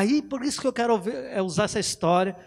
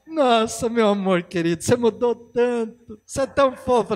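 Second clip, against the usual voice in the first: higher, sweet mock praise; gushing wife; 3 semitones higher than usual. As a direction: swoon over the husband teasingly. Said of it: "ela fala assim".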